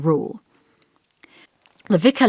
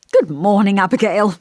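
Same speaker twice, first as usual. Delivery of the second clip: warm greeting; 4 semitones higher, 6 dB louder than usual. A narrator's reading. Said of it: "he greeted me warmly".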